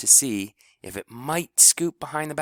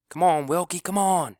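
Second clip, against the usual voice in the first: high, loud crowd chant; rising rally cry; cheering shout; 9 semitones higher, 4 dB louder than usual. A narrator's reading. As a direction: urge him on from the stands. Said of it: "shouted the All-Stars".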